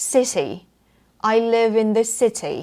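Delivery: CITY with a strongly released T; hard true T. Shown as a demonstration. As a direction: punch the T in CITY. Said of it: "แรงๆ นะคะ true T นะคะ". (city กระแทกเสียง T แรงๆ)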